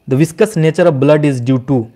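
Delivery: slow, deliberate quiz reading; slow dictation pace for the quiz; slow question read. Shown as a demonstration. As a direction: read it out word by word. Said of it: "reads quiz question aloud".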